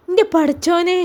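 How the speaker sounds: a touch of an anguished cry; mild cry of grief for the boy. Acted. Uncle hears of the accident, a mild anguished cry. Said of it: "ഉച്ചത്തിൽ കരഞ്ഞുപോയി".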